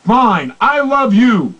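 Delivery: curt, reluctant fine, I love you; mock grudging declaration. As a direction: toss it off without feeling. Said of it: "not the perfect tonality".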